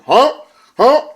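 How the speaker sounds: sharp, high rising catchphrase; loud questioning yelp, sharply upturned; Mr. Anderson. Retold or imitated. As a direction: mimic a wrestler's questioning catchphrase.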